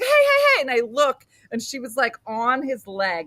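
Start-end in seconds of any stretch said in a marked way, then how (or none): 0.0-0.6 loud, high urgent hail; retold calling out. Mom to police officer through crowd, urgent calling out. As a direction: shout to catch someone far away.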